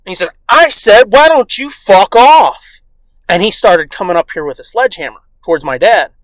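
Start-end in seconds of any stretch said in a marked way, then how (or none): 0.5-2.8 loud, higher, drawn-out insult; mock angry repeat. Neighbor repeats himself to dad, mock angry. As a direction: imitate a neighbor digging in.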